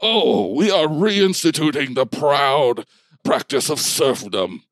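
slow, lightly voiced lordly commander; giant bulldog leader. Bulldog explains the shackled townsfolk, slow lordly proclamation. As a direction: proclaim it slowly as the bulldog in charge.

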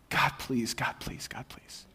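fading from soft to whisper; beg, dying away to nothing; desperate whispered plea. Acted. Elijah face to knees begging God, fading to a whisper.

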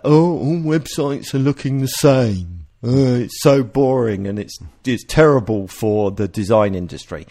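mock-whining complaint, lightly sarcastic; mildly mocking imitation of a grumble. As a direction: parody a bored designer's moan, drawing out the first words. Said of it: "in a sarcastic tone of voice".

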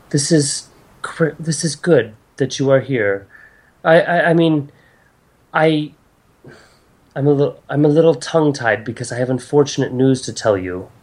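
lightly voiced goddess, faltering before bad news; stammer, searching for the right words; hesitant goddess. Game master voices goddess.

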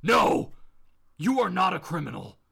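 Batman. Acted. Hero leaning in to stop Bob, firm command. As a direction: command him, then steady. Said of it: "Batman at this point leans in".

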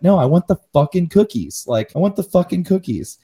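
mock outraged customer; angry insistence. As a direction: insist furiously, pitch climbing. Angry retort to Uber support.

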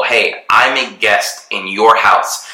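ordinary delivery

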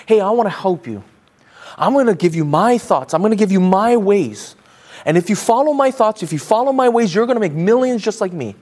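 lightly voiced guru making a confident pitch; a hint of a self-assured guru selling success; investment guru. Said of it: "a wealthy, rich investment, uh, guru".

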